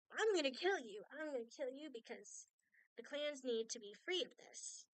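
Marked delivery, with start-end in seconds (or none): 0.1-1.0 louder, higher mock threat; hammed-up villain menace on I'm. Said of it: "and Saint goes".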